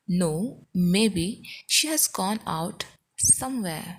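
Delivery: broken into chunks with clear pauses; slow, careful teaching delivery; slow model repeat. Shown as a demonstration. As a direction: pause after each phrase so learners can repeat.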